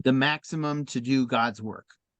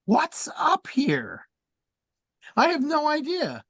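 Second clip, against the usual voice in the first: whispered aside; 11 semitones higher, slower than usual. Retold or imitated. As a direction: whisper it to yourself, puzzled. Retold puzzled aside at giggling.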